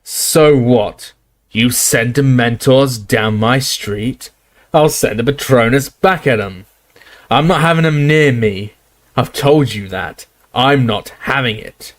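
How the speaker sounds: bellowing barman. Acted. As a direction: roar him down from your own doorstep. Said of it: "He was bellowing into one of the hooded faces".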